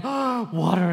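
like parched people spotting water; mock joyful cry over water; excited relief. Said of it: "and they're like".

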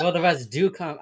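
badly faked Texan twang; Texas accent. Giving up on the Texan bit, Texas accent. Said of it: "I can't do it".

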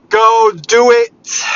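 loud, high, slow drill-sergeant shout; stretched-out yell; fired-up shout. Real, not acted. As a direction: blast the order at them. Motivational rant to listeners.

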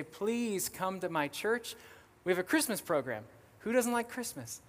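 retold childlike begging; pleading child. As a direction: coax like an eager child. Child begging her teacher in retold story.

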